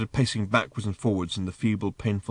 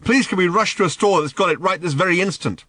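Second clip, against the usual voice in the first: loud, higher gushing sarcasm; mock excitement; 10 semitones higher, 8 dB louder than usual. A narrator's reading. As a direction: overplay the thrill to mock him. Arthur mocks with fake excitement.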